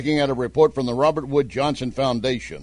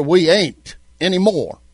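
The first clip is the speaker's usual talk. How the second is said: a hint of a folksy Southern accent, we ain't pressed a bit louder; playful mock Southern twang; 3 semitones higher, 4 dB louder than usual. Shown as a demonstration. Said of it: "strictly Southern accent and damn with grammar".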